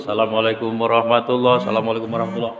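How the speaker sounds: lightly imitated salam on one level note; hint of a quick monotone prayer ending; imam closing prayer. Imam ending the prayer before asking whose child, light quick monotone. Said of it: "Ini jangan sampai begitu".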